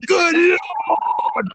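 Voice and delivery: very high, slowly stretched bad British cry; Nigel McGuinness. Host repeating his bad impression of a British commentator, mock astonishment. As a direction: drag out a hammed-up British exclamation. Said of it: "worst Nigel McGuinness impression ever".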